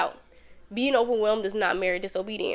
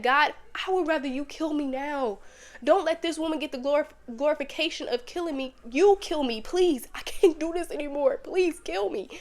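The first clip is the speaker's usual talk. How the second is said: pleading Elijah; 4 semitones higher than usual. Retold or imitated. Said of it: "He said".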